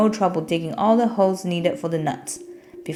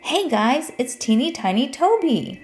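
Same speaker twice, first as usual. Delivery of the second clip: friendly yell; 7 semitones higher than usual. A narrator's reading. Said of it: "yelled out".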